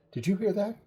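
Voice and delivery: high-pitched, startled question; alarmed question. Retold or imitated. Kenny startled by noise, alarmed question.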